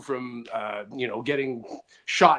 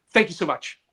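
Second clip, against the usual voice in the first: mimicking people; 3 semitones higher than usual. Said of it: "When people say".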